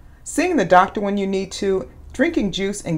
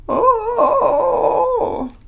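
mock dismay; 4 dB louder than usual. Reader reacts to dinosaur wailing.

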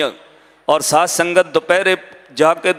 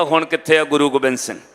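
settled, falling quote of his words; gentle reproof; 3 semitones lower than usual. Retold or imitated. Old woman quotes the crying boy's question back, gently reproving. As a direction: repeat it back calmly, gently disapproving. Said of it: "ਏਦਾਂ ਨਹੀਂ ਕਹੀਦਾ".

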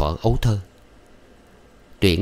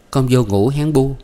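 higher, playful and louder; sly smiling; 6 semitones higher, 4 dB louder than usual. A narrator's reading. Thuận answering her mother with a sly, smiling brightness. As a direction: tease her mother with a grin. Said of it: "Thuận tủm tỉm cười".

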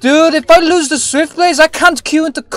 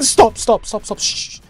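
soft, fading shushing; hushing; 5 semitones lower, 8 dB quieter than usual. Real, not acted. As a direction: shush them, dropping the volume quickly. Shushing others to hear footsteps.

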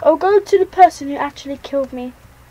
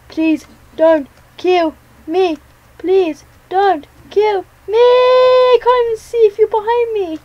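louder, climbing begging; rising panicky pleading; 5 semitones higher, 4 dB louder than usual. Real, not acted. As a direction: plead harder as panic returns. Pleading rises again while fleeing.

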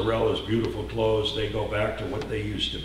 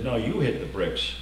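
calm firm Jesus. Acted. Jesus calmly answering the mocking mourners. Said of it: "Jesus turned around and he said".

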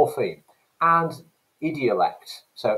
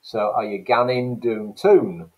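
Geordie dialect; 4 dB louder than usual. Shown as a demonstration. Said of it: "an example of the difference between accent and dialect".

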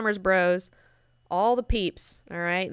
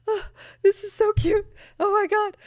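high, louder squeal of delight; gushing squeal; 14 semitones higher, 6 dB louder than usual. Retold or imitated. Fan describing the fireworks party scene, in a high delighted squeal. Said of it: "And I'm just like".

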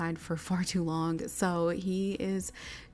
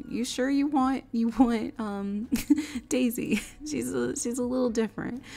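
higher, louder, half-joking warning about the horse; doubtful warning; 5 semitones higher, 4 dB louder than usual. Acted. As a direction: warn him lightly, you sure about this one?. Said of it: "Juniper was like".

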